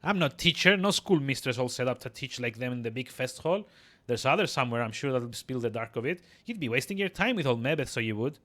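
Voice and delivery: scoffing crone in dialect; dismissive old midwife. Acted. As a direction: wave off the request as an old crone.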